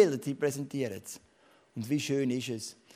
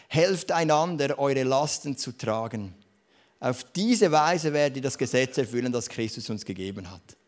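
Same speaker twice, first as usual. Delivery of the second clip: scripture reading; 4 dB louder than usual. Acted. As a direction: read the verse out to the church with weight. Reads Bible verse aloud.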